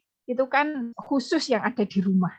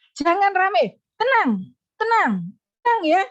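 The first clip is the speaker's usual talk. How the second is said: higher, louder "Jangan rame" followed at once by repeated falling "tenang"; raised soothing call; 9 semitones higher, 5 dB louder than usual. Shown as a demonstration. Teacher calming noisy pupils, raised but soothing. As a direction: stack the calm words right after the warning. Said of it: "segera tumpuk".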